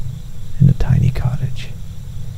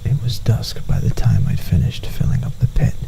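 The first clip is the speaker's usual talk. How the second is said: softer, hushed ghost-story whisper; soft whispered narration; 5 dB quieter than usual. A narrator's reading. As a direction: draw the listener close with a whisper.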